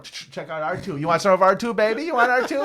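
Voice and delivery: high, loud hustler's sales pitch thrown back; mock dealer pitch. Mocking the dealer's pitch back at him, hammed up and loud.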